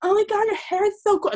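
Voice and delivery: high-pitched mock drunken gushing; drunk girl. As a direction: imitate a smashed girl fawning over hair. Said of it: "she was absolutely smashed".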